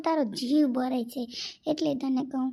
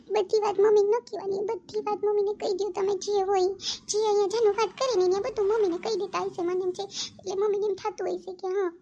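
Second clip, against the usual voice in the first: higher-pitched reproachful lecturing; scolding; 5 semitones higher than usual. Acted. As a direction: tell him off like a sharp friend. Friend scolds him for telling mother.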